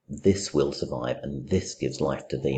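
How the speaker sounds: slow, with both "this" leaned on hard; stress on this. Shown as a demonstration. Teacher reading the closing couplet aloud, stressing "this" slowly. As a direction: press each "this" down as you read the couplet. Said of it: "look at that stress on the word this".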